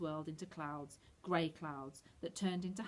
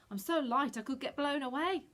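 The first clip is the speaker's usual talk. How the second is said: Scarecrow voice; 7 semitones higher, 4 dB louder than usual. A narrator's reading. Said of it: "he said".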